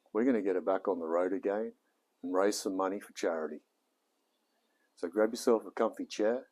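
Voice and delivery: friendly presenter greeting to camera; easygoing Aussie host intro; video intro. Acted. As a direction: welcome the viewers like a cheerful host.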